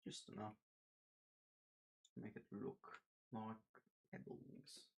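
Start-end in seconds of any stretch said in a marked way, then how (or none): 4.1-4.9 squeaky pebbles. Pretend. Squeaky pet-name voice.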